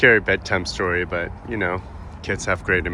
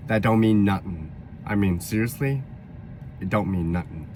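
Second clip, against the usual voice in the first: dismissive New York accent; 3 dB quieter than usual. Shown as a demonstration. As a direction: shrug it off like a New Yorker. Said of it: "New York accent".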